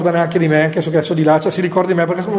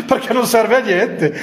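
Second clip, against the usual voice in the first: higher-pitched, through a laugh; 4 semitones higher than usual. Real, not acted. Speaker joking to the sisters about beatification costs, laughing. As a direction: let the laugh spill into the words. Laughs at own provocative joke.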